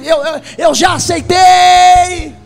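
stuttering believer, shouted slow; mock believer shout. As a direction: shout it out slowly, stumbling on eu. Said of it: "Tem hora que a gente fala assim".

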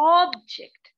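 ऑब्जेक्ट punched high and loud; ऑब्जेक्ट said with heavy pressure; stressed object. Shown as a demonstration. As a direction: hit ऑब्जेक्ट hard. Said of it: "मैं ऑब के ऊपर कितना pressure दे".

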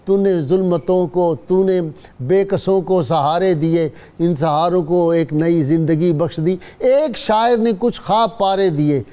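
measured, solemn poem recital; stately nazm recitation. Shown as a demonstration. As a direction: recite it like a school prize poem. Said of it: "ایک نظم پڑھی تھی جس میں انعام ملا".

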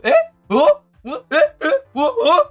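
rapid-fire high mock gasps of confusion; startled. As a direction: imitate two people squeaking in disbelief. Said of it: "같이 놀라가지고". (깜짝 놀라 높게 되묻는 흉내)

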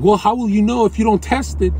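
high, loud mock challenge; imitating incredulous objectors. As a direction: challenge it loudly, as a mimicked critic. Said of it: "They're like".

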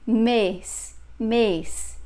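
"Mês" with a closed ay-like e. Shown as a demonstration. Teacher showing what the accent mark means, closed "Mês". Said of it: "you have to pronounce closed".

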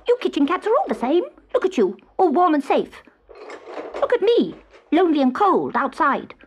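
high-pitched, plaintive hobgoblin; complaining hobgoblin. Acted. Hobgoblin left out in the cold, high and self-pitying.

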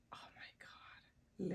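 slow, swooning whisper; awed whisper. Real, not acted. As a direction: breathe it out slowly, overcome by the scent. Overcome by the perfume.

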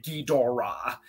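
Ghidorah in three drawn-out syllables, ghee-DOR-ah; careful, unswallowed Ghidorah; full pronunciation. Shown as a demonstration. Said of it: "get real mad for not s-, calling it".

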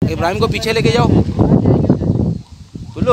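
loud call across the field. Real, not acted. Man shouting to helpers to take Ibrahim back.

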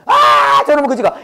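loud, high cry of mock disgust; mock outburst. Drinkers griping about a beggar, mock outburst. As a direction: burst out as if griping about someone.

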